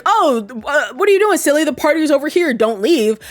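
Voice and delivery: sing-song teasing on silly, pulling him back; sweet Julie. Retold or imitated. Julie stops Frank, voiced.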